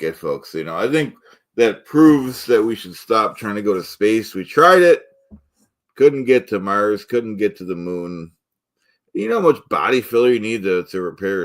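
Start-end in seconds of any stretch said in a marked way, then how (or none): 4.3-7.0 mock outrage. Host declaring space a failure, loud mock outrage. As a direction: punch it like a grand declaration.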